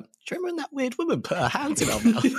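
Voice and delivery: laughing mock recollection. Co-host plays the kids reminiscing years later, laughing. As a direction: laugh through the imagined memory.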